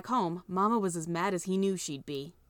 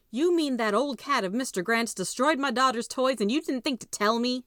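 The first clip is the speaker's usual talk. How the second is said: higher, louder angry mother's roar; 6 semitones higher, 4 dB louder than usual. Acted. Mama roars at the sheriff about the cat. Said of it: "she roared".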